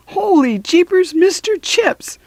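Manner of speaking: very high, thrilled cry; surprised. Acted. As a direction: gasp it out in delight. Dog suddenly appears.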